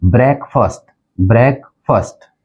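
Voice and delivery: ब्रेकफास्ट with short E, brek-fast; correct pronunciation. Shown as a demonstration. Teacher modelling the actual word, ब्रेकफास्ट as brek-fast. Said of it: "Hindi में भी लिखा है".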